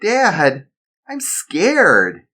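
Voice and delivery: put-on high kid voice, a little afraid; small boy admitting fear; scared child. Son telling his dad he is scared.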